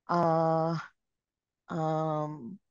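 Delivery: drawn-out hesitant uh, um; demo ceiling-staring fillers. Shown as a demonstration. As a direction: act out searching memory aloud. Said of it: "Nakatingin pa sa ceiling".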